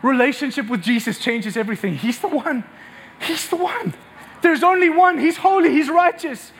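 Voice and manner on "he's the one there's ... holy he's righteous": emphatic proclamation. Real, not acted. Preacher proclaiming Christ emphatically.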